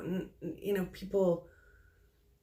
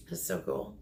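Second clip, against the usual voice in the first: awed whisper; 5 dB quieter than usual. Real, not acted. Medium reacting to the vision.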